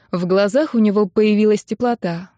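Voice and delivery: plain reading voice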